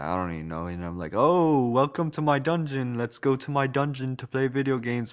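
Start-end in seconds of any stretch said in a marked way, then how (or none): 1.1-5.1 put-on British accent. Retelling what they said before going down to play video games, British accent. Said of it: "I said it in a British accent like this".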